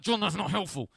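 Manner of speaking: high, loud imitation of an exasperated wife; mock-stressed outburst, pitched well up; exasperated retort. Wife snaps at husband over lost keys, imitated exasperated retort.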